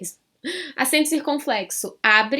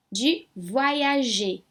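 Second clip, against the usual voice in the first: voyager said very slowly, last syllable stretched; emphasised final E; much slower than usual. Shown as a demonstration. Teacher modelling French for her class, stressing the ending. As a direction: draw out voyager. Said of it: "eu também dou ênfase".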